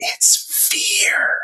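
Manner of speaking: hushed, breathy whisper, close and leaning in. Voicing a character who whispers a question to a companion: whispering. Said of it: "leans over and whispers".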